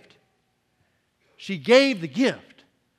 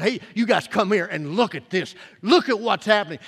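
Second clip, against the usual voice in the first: louder retold call to gather round; mock crying out; 5 dB louder than usual. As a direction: call the group over, moderately raised voice. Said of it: "he cried out to all his disciples".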